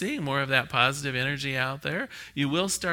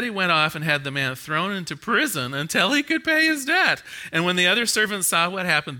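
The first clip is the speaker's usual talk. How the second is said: fire and brimstone. Acted. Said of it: "letting loose with the fire and brimstone".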